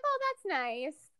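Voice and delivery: high, drawn-out little reaction; imitated naive approval. Retelling her reaction to a character, imitated naive approval.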